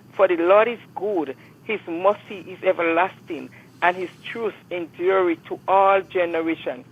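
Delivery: slow, measured scripture reading; psalm reading. Acted. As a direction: read the psalm with reverence. Reads a psalm on air.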